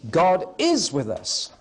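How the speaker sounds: slow, is pressed; repeating the second option for a vote, is stressed. Shown as a demonstration. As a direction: lean on is. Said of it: "Let's take a quick vote".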